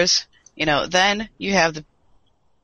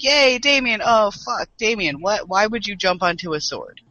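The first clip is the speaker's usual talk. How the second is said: retold cheer then dismay; 4 semitones higher than usual. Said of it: "I'm, like, sitting there like".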